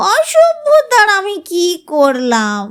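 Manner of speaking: slow whiny protest; tearful protest. Acted. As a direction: protest slowly, on the edge of tears. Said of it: "কাঁদো কাঁদো নাকি সুরে প্রতিবাদ". (কাঁদো কাঁদো নাকি সুরে প্রতিবাদ)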